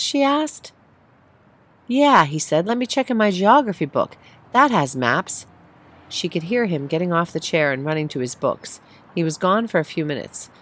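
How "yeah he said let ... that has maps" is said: put-on child voice. Sunny voiced.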